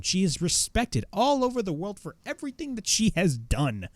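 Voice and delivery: imitating a fiery wrestling promo, pitch swinging high. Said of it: "cut this fiery fucking promo".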